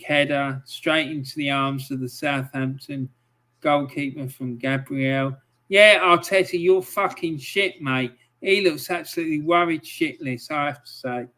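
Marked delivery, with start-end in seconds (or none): 5.7-8.1 angry yell. Real, not acted. Yelling at the manager.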